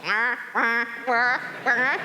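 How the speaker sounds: high, spaced-out mock laugh; imitated robot laugh. Storyteller mimics Aura the robot laughing at her son's remark, mock laughter. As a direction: mimic a robot laughing in separate "wah" bursts. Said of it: "she starts laughing. She goes".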